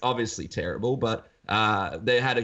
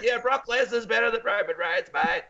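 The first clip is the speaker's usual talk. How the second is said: higher, broad Australian chime-in; broad Australian accent; 10 semitones higher than usual. Retold or imitated. Narrator joining the pub argument, broad Australian accent. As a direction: join in as a cocky Australian. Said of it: "putting on an Australian accent".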